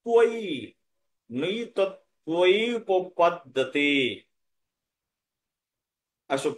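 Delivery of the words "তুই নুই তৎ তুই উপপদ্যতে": তুই with a w glide after the t; slow, glide into the vowel of তুই; conjunct tv sound. Shown as a demonstration. Teacher explaining the written conjunct, slow careful pronunciation. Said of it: "তয় ব ফলা আছে".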